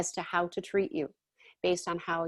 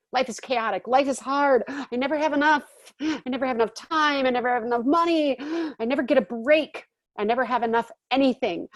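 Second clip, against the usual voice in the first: higher, louder litany of complaints; complaining victim; 4 semitones higher, 4 dB louder than usual. Retold or imitated. A complainer telling her story about life, in a loud whine. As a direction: whine through every never. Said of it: "What's your story about life?".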